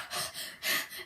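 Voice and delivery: sharp gasps before a scream; re-enacted gasping. Showing how she woke screaming, startled gasps. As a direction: suck in startled breaths. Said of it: "and I screamed".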